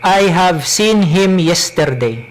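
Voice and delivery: heavy Cebuano-accented English. Shown as a demonstration. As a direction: read it in thick Bisaya English. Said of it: "I will speak in my Cebuano accent".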